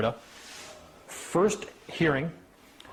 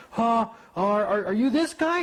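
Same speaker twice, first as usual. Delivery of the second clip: high, stammering astonished clerk; surprised clerk; 9 semitones higher, 3 dB louder, slower than usual. Retold or imitated. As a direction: act caught off guard. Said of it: "And she's like".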